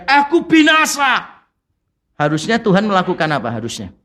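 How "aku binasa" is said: slow, high cry of doom; slow high-pitched mock lament; Isaiah crying out. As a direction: draw it out as a wail. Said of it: "Yesaya berteriak".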